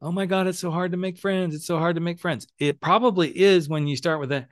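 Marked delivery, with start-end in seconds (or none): 0.0-2.5 higher-pitched mock complaint; mock bitching. Gay men bitching about making friends, mock complaining. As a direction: imitate someone griping about the same old thing. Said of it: "all of us gay men seem to be bitching about".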